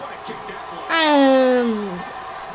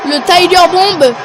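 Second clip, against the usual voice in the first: wrestling commentator. Acted. Play-by-play of the match.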